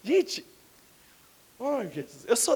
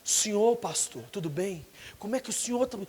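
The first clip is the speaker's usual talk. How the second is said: sweet-talking youth; 3 semitones lower, 7 dB quieter than usual. Retold or imitated. Youth fawning over pastor.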